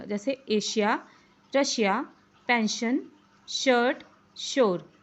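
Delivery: एशिया, रशिया, पेंशन with a clear sh; sh sound. Shown as a demonstration. Teacher listing words with the sh sound. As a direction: say each word with a crisp sh. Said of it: "ये सब श की आवाज़ आ रही है".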